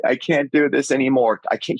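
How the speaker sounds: hammed-up breakdown, not real tears; mock sobbing. Host mimics Rachel sobbing on the couch, mock wail. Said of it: "like Rachel's doing and sobbing".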